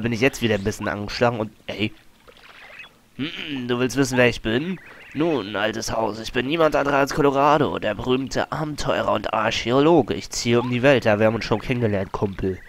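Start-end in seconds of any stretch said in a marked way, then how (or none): 3.7-12.6 hearty adventurer. Acted. Reads Colorado's text box.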